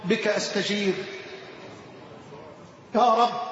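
measured devotional recitation; poem recitation. Acted. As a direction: recite it as a humble prayer.

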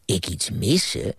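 storyteller voice, lively with character voices; bedtime story reading. Acted. Grandpa reading to a child at bedtime, gentle storytelling. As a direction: read it like grandpa at the bedside.

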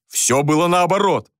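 acted cry of denial; indignant shout. A narrator's reading. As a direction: shout down the accusation. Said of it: "крикнул Джориан".

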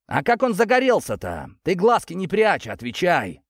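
high, shouted interrogation; sudden bark. A narrator's reading. Korney demands an answer from the worker, barking. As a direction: switch abruptly from calm to yelling. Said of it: "гаркнул внезапно Корней, перейдя от спокойного тона к крику".

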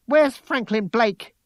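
high, loud, slow demand; fierce. A narrator's reading. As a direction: demand it fiercely, pitch right up. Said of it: "she said fiercely".

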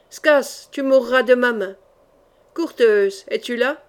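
loud, defiant challenge; defiant battle cry; cried out. Acted. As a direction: call them out to fight. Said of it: "Il cria".

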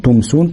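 "تمسون" with a distinct, unmerged m; clear meem. Shown as a demonstration. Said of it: "تبقى واضحة كده مظهرة".

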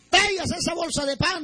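high, urgent retold call; calling back. Hungry survivor answering the girl, calling back. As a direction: call back eagerly without really shouting.

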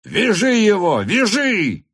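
high, loud command; officer ordering the man tied, high and loud; shouted order. A narrator's reading. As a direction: bark the order to seize him. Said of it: "кричал он".

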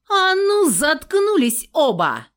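high, loud bark to shut them up; barked command. A narrator's reading. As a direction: snap at both of them loud. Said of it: "рявкнула я".

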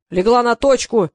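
loud, slow, drawn-out bellow across the set; a director roaring his command. A narrator's reading. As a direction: yell the order so the whole set hears. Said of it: "завопил режиссёр".

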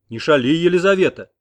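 stern husband checking his wife; icy rebuke. A narrator's reading. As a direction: douse her like ice water. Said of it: "будто ледяной водой окатил".

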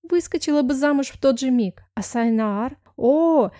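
put-on high, gushing young maid; lightly voiced giddy friend; excited girlfriend. Miranda's voice, gushing. (восторженная подруга)

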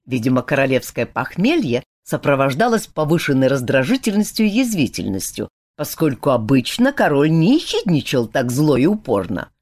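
usual speaking voice

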